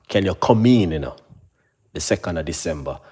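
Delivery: a hint of a bored receptionist offering a late slot; mock receptionist. Receptionist offering a far-off appointment, lightly mimicked. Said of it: "this is how they talk".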